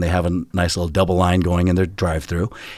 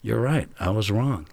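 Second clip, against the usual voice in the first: calm apology; 5 dB quieter than usual. Retold or imitated. Ref apologizing to yelling players.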